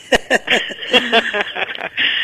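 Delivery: high, rapid run of giggles; giggling laugh. Real, not acted. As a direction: burst out in high-pitched laughter. Caller laughs after dropping the topic. (tawa cekikikan bernada tinggi)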